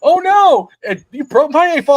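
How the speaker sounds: shrieking high mocking yell; mock taunt. Son jeers at the other kid, loud high mocking shout. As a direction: crow it loudly, jeering. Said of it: "Tristan goes".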